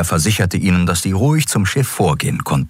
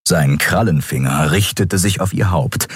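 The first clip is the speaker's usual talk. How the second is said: ordinary delivery, nothing marked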